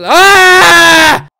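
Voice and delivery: long, high, loud scream; startled scream. Real, not acted. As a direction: scream at a sudden fright. Jump scare in horror game.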